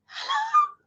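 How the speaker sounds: lost voice. Retold or imitated. Answering a colleague's call, croaking with a lost voice. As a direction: croak it out like your voice is gone. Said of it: "my voice had gone".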